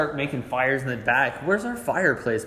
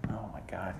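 whispering; 5 semitones lower, 11 dB quieter than usual. Real, not acted. Exasperated aside over hamster.

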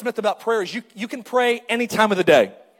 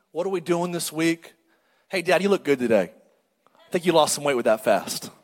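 casual chat; 4 semitones lower than usual. Retold or imitated. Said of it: "my daughter doesn't say".

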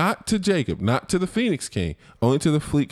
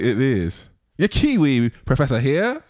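put-on old Hollywood transatlantic accent; crisp glamorous old Hollywood star. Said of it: "transatlantic accent".

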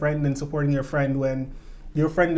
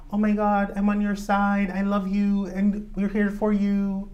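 high, gushing mock sympathy; Dorit; 5 semitones higher than usual. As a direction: impersonate a rich housewife fussing over her friend. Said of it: "I'm impersonating Dorit, by the way".

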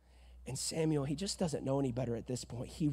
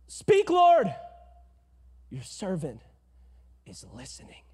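eager then hushed answer; 8 dB louder than usual. Retold or imitated. Boy Samuel answering God, loud fading to whisper. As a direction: blurt it out then hush.

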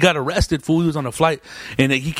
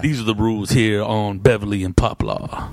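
low, slow guard impression; deep-pitched, measured mock lecture; security guard; 8 semitones lower than usual. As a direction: imitate a club guard laying down the rules. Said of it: "remember that black security guard".

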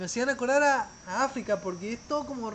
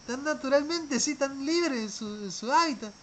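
awed wow; 3 semitones higher than usual. Retold or imitated. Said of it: "Yo decía".

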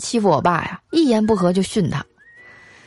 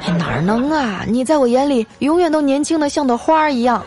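flattering husband; 5 semitones higher than usual. Acted. Husband flatters his sulking wife.

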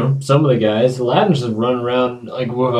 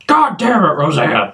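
from another room; 2 semitones higher than usual. Retold or imitated. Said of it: "somebody from the other room".

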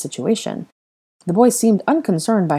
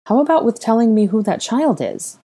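petulant; 6 semitones higher, 3 dB louder than usual. Acted. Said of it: "Hermione suggested petulantly".

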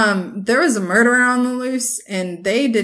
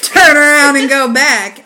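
slow, louder mock command; mock urgent order; 4 semitones higher, 8 dB louder, slower than usual. Retelling Alex demanding she turn the car around, mock urgent. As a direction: bark it like a panicked friend. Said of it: "And Alex goes".

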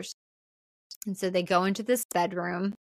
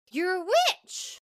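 higher, slow "you're a witch"; shocked accusation; 10 semitones higher, slower than usual. Retold or imitated. Chris to Nancy, freaked-out accusation. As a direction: blurt it out in alarm.

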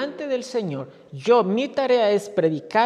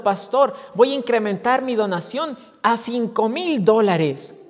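mock shout; 2 semitones higher, 4 dB louder than usual.

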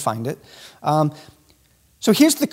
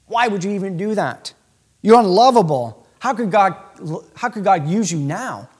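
accusing devil voice. Retold or imitated. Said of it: "his tone changes. He says".

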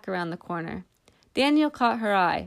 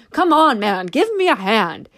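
louder, urgent call for help; straining yell; 2 semitones higher, 6 dB louder than usual. A narrator's reading. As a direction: yell at him while straining under weight. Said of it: "he yelled at Daniel Cole".

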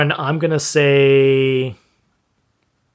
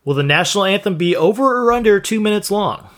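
a bit higher, hyped announcer read; 4 semitones higher than usual. Acted. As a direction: read it like a game show host. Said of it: "in my best announcer voice possible".

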